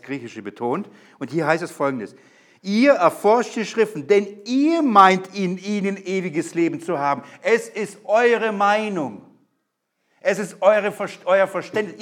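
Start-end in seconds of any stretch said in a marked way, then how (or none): 2.6-7.2 "ihr" hit high and loud, slowed down; stress on ihr. Shown as a demonstration. Preacher rereading the verse to the church, stressing "ihr". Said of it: "Im Griechischen ist das ihr betont". 7.4-12.0 "eure" pushed high and slow; stress on eure. Shown as a demonstration. Preacher explaining the verse, leaning on "eure". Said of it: "ist das ihr betont".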